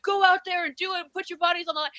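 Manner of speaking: mock rallying cry. Host parodying an activist call to arms, mock rallying cry. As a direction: ham up a rabble-rouser urging people on.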